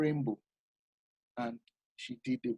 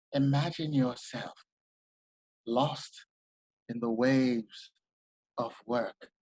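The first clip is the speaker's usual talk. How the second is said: serious commercial voice; 4 dB quieter, slower than usual. Shown as a demonstration. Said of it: "a serious commercial".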